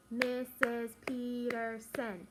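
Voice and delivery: slow, separated beat on each syllable; clapped syllables. Shown as a demonstration. Teacher clapping out her name for the class, syllable by syllable. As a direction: stretch it out syllable by syllable. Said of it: "Let's clap it".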